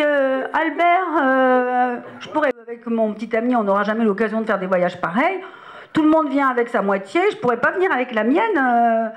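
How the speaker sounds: mildly wheedling, hesitant ask; pleading request. Retold or imitated. Young actress asks the producer to bring her fiancé, coaxing.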